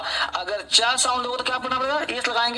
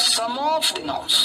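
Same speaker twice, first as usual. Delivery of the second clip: slow dictation; 4 semitones higher, much slower than usual. Shown as a demonstration. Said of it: "teacher dictating slowly".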